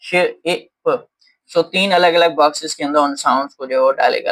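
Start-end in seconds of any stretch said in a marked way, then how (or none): 0.0-1.1 श, इ, प each said alone with clear pauses; phonemes segmented. Shown as a demonstration. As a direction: sound out शिप as श, इ, प. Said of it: "phonemes हमारे पास कितने हैं".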